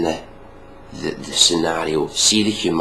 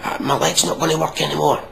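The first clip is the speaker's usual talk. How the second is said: playful fake distress, pitched up; mock panic; 8 semitones higher than usual. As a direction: imitate overreacting to a tiny injury. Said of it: "getting all hype and going".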